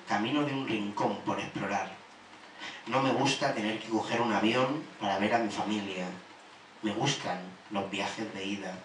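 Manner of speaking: measured poetry reading with pauses between lines; even, deliberate spoken-word delivery; poem recital. Acted. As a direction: recite a list of likes and dislikes, line by line.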